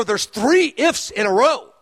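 slow, savoring teacher's announcement; eloquent teacher mode. Retold or imitated. Retelling his Bible lesson to the new believer, slow and pleased. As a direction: spell out the discovery like a proud teacher. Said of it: "waxing eloquent teacher mode".

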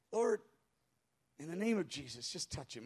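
low, soft, discouraged mumble; whispered mutter. Retold or imitated. Discouraged pastor prays over a stranger, muttering. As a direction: trail down into a half-hearted murmur. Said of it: "I just kinda whispered it and muttered it".

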